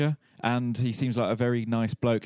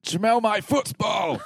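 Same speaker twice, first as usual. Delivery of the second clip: loud, slow mock German shout; German accent; 11 semitones higher, 4 dB louder, much slower than usual. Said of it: "Do a German accent".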